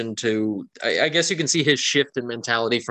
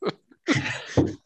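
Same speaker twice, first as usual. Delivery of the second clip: amused, laughing; 6 semitones higher, 5 dB louder than usual. Real, not acted. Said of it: "funny to hear somebody yell hark".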